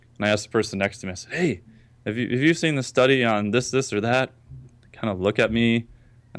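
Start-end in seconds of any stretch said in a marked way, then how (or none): 1.4-4.3 keen, eager, excited tone. Retelling asking the person beside them at a conference, retelling being all excited. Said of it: "I'm like all excited".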